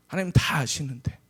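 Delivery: usual speaking voice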